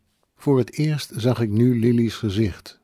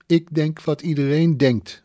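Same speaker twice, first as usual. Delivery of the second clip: raised, louder outburst; calling out; 6 semitones higher, 3 dB louder than usual. Acted. Drunk woman calling out her answer to the narrator. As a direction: blurt it out loud. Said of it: "riep ze".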